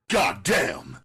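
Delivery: put-on high, loud bellow at the girls. A narrator's reading. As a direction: bark it out in disgust. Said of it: "I bellowed".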